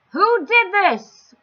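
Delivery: slow, high, loud outcry; astonished cry. Acted. King cries out at the painted green tree. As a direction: demand it in amazement. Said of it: "cried the king".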